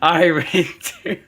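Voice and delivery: slow, echoing British drawl of the line; mock British accent. Co-host echoing the Lara line in mock British accent. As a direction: repeat the line in a put-on accent. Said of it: "wrong accent".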